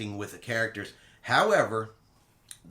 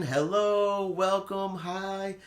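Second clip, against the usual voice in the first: cheery greeting; 7 semitones higher, much slower than usual. Retold or imitated. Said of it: "They're just waving".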